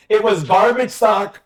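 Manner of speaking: slow, deliberate weight on "garbage"; stress on garbage. Shown as a demonstration. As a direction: draw out and punch "garbage". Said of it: "I stress the word garbage".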